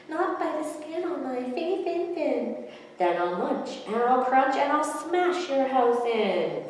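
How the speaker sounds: the first fish stands up to the shark; defiant little fish. A narrator's reading. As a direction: squeak out the refusal boldly.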